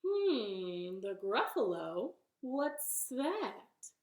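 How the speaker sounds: lightly voiced pondering snake; puzzled snake. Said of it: "And the snake said".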